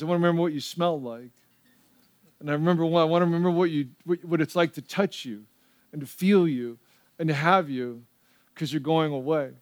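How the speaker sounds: soft, low, gently retold farewell; tender retold child. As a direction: quote a little son's goodbye softly and tenderly. Small son's tender farewell to dad.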